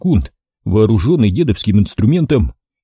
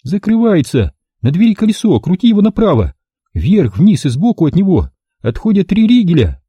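high, hurried instructions; high urgent female voice; hurried woman; 9 semitones higher than usual. A narrator's reading. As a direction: rush the instructions. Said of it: "Торопливо ... зашлась в истерике".

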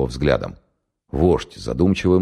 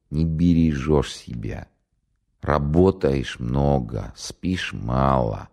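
gentle reproach; much slower than usual. Acted. Leader gently scolding sleepy commissar.

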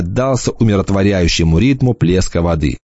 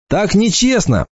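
возмущённый выкрик; 12 semitones higher than usual. Retold or imitated. Возмущённый выкрик в песочной драке.

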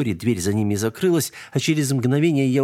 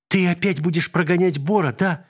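put-on child's voice; 8 semitones higher than usual. A narrator's reading. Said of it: "догадалась Алинка".

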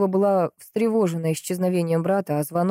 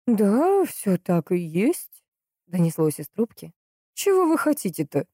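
put-on creaky old woman; 2 semitones higher, slower than usual. A narrator's reading. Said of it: "скрипучий старческий голос". (старушка по телефону, тянет слова)

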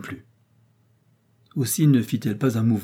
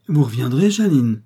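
imploring; 4 semitones higher, 8 dB louder than usual. Acted. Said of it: "implora un nouveau personnage".

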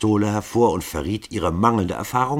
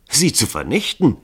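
laughing; 9 semitones higher, 6 dB louder than usual. A narrator's reading. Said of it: "rief Dragomilow lachend".

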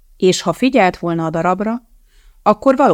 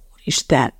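whimpering; 5 semitones lower than usual. A narrator's reading. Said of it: "nyöszörögte Calvin öklendezve".

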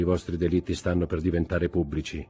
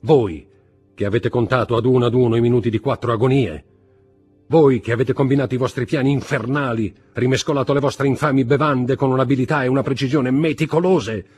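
loud tirade climbing ever higher; mounting exaltation; 7 semitones higher, 8 dB louder than usual. A narrator's reading. Husband lists his wife's crimes, with mounting exaltation. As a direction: build the accusation to a fevered peak. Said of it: "continuò Villefort con crescente esaltazione".

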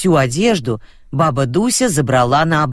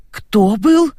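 confused; 8 semitones higher than usual. Acted. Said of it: "не поняла баба Роза".

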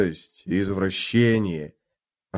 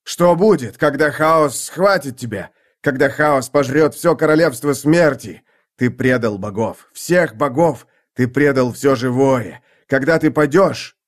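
angry; 3 semitones higher, 4 dB louder than usual. Acted. Draconus accuses Hood loudly.

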